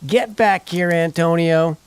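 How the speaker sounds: put-on high, loud yell after a fleeing boy; furious dad screams the boy back; screaming father. Father screaming at runaway son Antonio, loud and high. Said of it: "shaking his fist and screaming".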